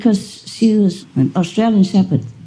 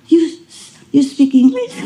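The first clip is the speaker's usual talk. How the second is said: much higher delighted disbelief; amazed question; 8 semitones higher than usual. Retold or imitated. Owner amazed her dog talks, high and thrilled. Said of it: "I said".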